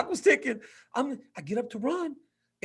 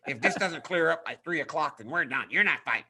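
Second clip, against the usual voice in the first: lightly voiced stern coach, pitched down; coach Bob; 4 semitones lower than usual. Fighter imitating his coach's warning, low and stern. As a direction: lay down the ultimatum in a lower voice. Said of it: "you know how Bob gets".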